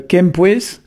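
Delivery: kempues said very slowly as kem-pwes, ending on a rise; slow modelling of kempues; slow demo. Shown as a demonstration. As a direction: drag kempues out for learners to hear each sound. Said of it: "qui est l'équilibre".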